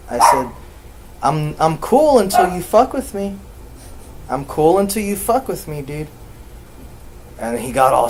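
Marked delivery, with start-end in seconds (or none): 1.2-6.1 stern warning. Retold or imitated. Retells warning given to nephew.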